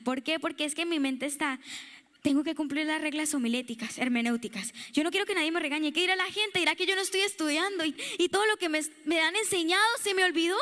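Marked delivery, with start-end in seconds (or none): 2.2-10.6 anxious rushed inner voice. Retold or imitated. Anxious inner voice while writing.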